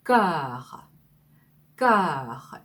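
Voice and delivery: "cœur" said slowly with a rounded eu vowel; cœur demo. Shown as a demonstration. Teacher modelling "cœur" for students to copy. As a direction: say "cœur" carefully, lips rounded. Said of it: "이렇게 발음하시면 돼요".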